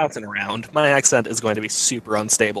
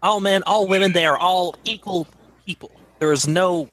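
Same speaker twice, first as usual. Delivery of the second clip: Billy's speech; 3 semitones higher than usual. Acted. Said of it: "Billy's speech".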